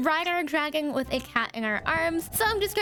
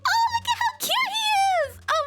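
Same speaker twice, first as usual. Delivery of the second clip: high cooing; 3 dB louder than usual. Real, not acted. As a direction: coo over a cute kitten. Cooing at cat.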